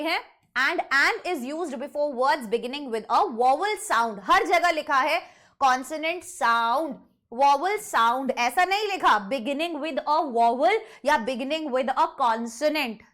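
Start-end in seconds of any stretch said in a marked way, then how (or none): 5.6-8.3 कॉन्सोनेंट साउंड, वॉवल साउंड, each term firmly picked out; emphatic stress. Shown as a demonstration. Teacher warning of an exam trap, stressing कॉन्सोनेंट साउंड and वॉवल साउंड. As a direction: lean on both terms, कॉन्सोनेंट साउंड and वॉवल साउंड. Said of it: "इस चीज पर जोर क्यों दे रही हूं".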